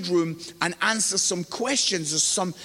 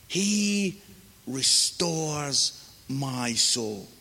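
slow, measured psalm reading; scripture reading; slower than usual. Acted. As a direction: read the psalm unhurriedly, with long pauses. Reads the psalm aloud.

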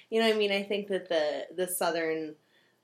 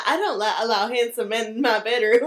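mock Southern lady accent, louder, through laughter; 4 semitones higher, 8 dB louder than usual. Aunt primly refusing handsome men, in a mock Southern lady accent. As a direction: ham up a coy Southern belle accent. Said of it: "the classic, like, Southern lady".

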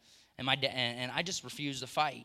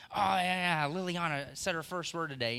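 excited parent; 3 semitones higher than usual. Retold or imitated. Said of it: "not really as excited about it".

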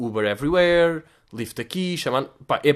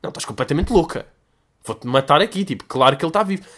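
rude retort; 4 dB louder than usual. Retold or imitated. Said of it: "mal educado, de repente".

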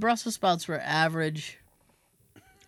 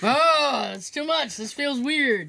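grossed out; 5 semitones higher, 4 dB louder, slower than usual. Retold or imitated. Acted gag reflex reaction.

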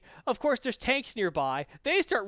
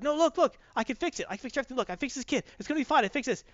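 high-pitched, acted insistence; frantic pleading; 7 semitones higher, faster than usual. Firestorm insisting he fixed the kid, high and pleading. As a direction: plead in a raised voice, phrase upon phrase.

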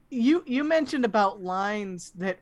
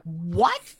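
mild double take; 2 semitones lower, 5 dB louder than usual. Retold or imitated. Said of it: "I'm like".

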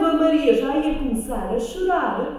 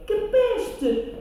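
high laughing question; 9 semitones higher than usual. Acted. Maria laughing. (a rir)

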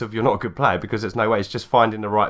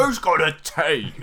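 higher, slow, posh British tea voice; mock British accent; 6 semitones higher, slower than usual. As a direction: ham up a British tea drinker. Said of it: "they do a British accent".

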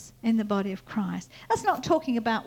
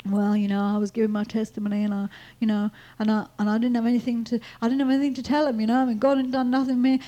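imitated moaning; 4 dB louder, faster than usual. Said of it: "he was forever moaning".

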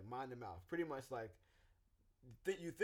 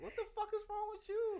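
high, loud blunt outburst; 6 dB louder than usual. Retold or imitated. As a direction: shout it with no filter. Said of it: "good example of an external processor".

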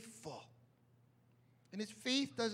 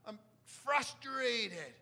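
groaning lament; 3 semitones higher, slower than usual. Retold or imitated. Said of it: "He's like".

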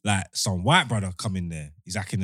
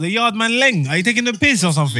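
higher and louder, building outrage; indignant rant; 11 semitones higher, 6 dB louder than usual. Retold or imitated. To the officer, a higher, louder indignant rant. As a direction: tear into him for the insult.

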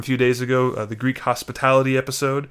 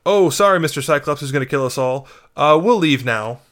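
mock timid apology; 3 dB louder than usual. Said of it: "rather than saying".

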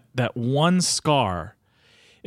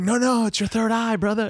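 much higher, lightly put-on voice of a mellow spiritual teacher; acting teacher voiced calmly reassuring a skeptical student; imitating a laid-back teacher; 10 semitones higher than usual. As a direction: play her calm and breezy, a little mocking. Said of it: "And she's like".

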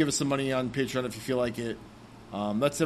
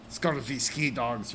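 put-on pirate accent; much slower than usual. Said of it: "some bastardization of some kind of English accent".

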